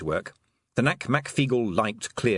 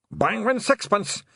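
high loud battle yell; war cry; 12 semitones higher, 4 dB louder, slower than usual. Acted. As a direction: yell it as a charge.

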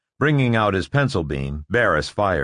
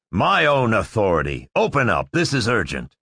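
sharp. Acted. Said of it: "Barris said sharply".

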